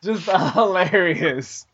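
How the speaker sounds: laughing through the words, slowed down; drawn-out words broken by laughter; cracking up. Real, not acted. Cracking up at a wrong guess.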